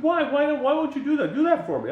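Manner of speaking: high retold pestering; insistent pleading. Stranger pushing visitor for a favor, mock insistent. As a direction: press the request in mock disbelief.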